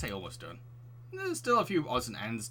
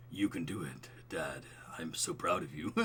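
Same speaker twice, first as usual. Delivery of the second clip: put-on lower, softer cooing baby talk; 6 semitones lower, 5 dB quieter than usual. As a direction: voice a baby cheering dad. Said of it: "doing the baby voice".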